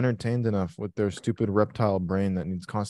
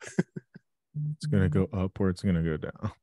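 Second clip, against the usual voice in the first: slow, teasing echo of a colleague; mocking mimicry; 3 semitones lower, slower than usual. Co-host parrots a trader's vague forecast, mocking. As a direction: parrot it slowly, poking fun.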